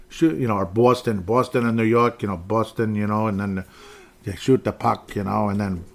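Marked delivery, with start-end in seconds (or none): 0.6-2.9 mock East Coast vowels on the city names; East Coast accent. Podcaster joking about conference accents, East Coast accent. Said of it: "East Coast accent". 4.2-5.1 mock East Coast hockey talk; East Coast accent. Podcaster joking about East Coast hockey, East Coast accent. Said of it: "East Coast accent".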